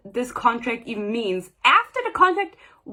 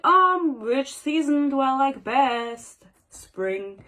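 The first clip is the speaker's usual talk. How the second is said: mock pondering mother; much slower than usual. Reader imagining her mom picking a season, mock pondering. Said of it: "She was like".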